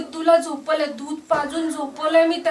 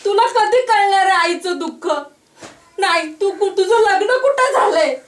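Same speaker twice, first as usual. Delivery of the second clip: crying plea; 2 semitones higher, 3 dB louder than usual. Acted. Mother cries at friend.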